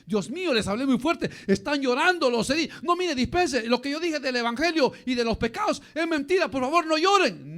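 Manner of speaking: mock-distressed pastor, pitched a little up; hurried, pleading apology to the congregation; apologetic pastor. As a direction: imitate a pastor fretting and backtracking. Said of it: "Y entonces el pastor dice".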